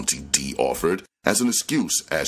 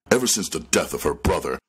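ordinary delivery, nothing marked

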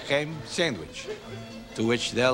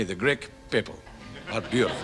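slow model phrase; 5 semitones lower, 5 dB quieter than usual. Shown as a demonstration. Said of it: "Say that after me".

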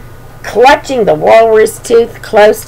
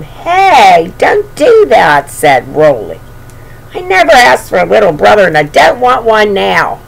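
mad big brother. Acted. Roly angry at little brother.

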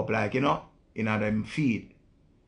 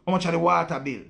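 put-on sweet asking girlfriend; 5 semitones higher, 3 dB louder, faster than usual.

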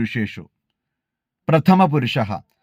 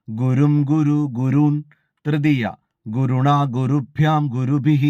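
measured, even chanting of each case form; model recitation. Shown as a demonstration. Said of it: "നോക്കാം". (മാതൃകാ അവതരണം, ഓരോ രൂപവും താളത്തിൽ ചൊല്ലുന്നു)

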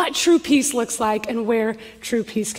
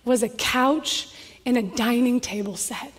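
tearful; 3 semitones lower, 6 dB quieter than usual. Retold or imitated. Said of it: "she's just crying and says".

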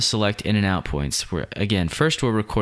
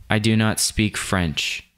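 slow, deliberate English line; voiceover read; 2 semitones higher, slower than usual. Shown as a demonstration. Recording the English voiceover before the French, slow careful read. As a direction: say it slowly and evenly for the take. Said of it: "then we'll go and record".

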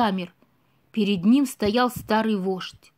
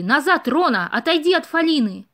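shout; 4 semitones higher, 4 dB louder than usual. Acted. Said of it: "крикнул Бэмби".

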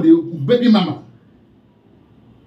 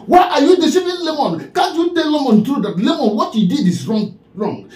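angry shout; 4 semitones higher than usual. Real, not acted. Ranting at the chief over Lemon, shouting. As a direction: yell the question back at him, demanding. Angry rant repeating her question.

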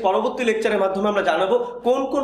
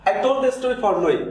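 slow dictation; much slower than usual. Shown as a demonstration. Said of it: "এখানে আমরা for লিখবো".

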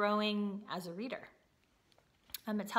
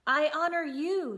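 higher and louder declaration; shouted; 6 semitones higher, 8 dB louder than usual. A narrator's reading. Mouse declaring devotion to princess, shouted. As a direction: proclaim it boldly. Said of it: "shouted Despereaux".

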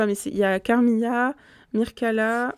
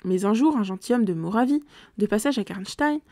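steady, measured reading of a gothic novel; story narration. A narrator's reading. Reader narrating a gothic tale to listeners, measured narration. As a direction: read it like an audiobook narrator.

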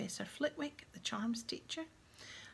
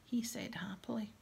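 whispered story reading. Acted.

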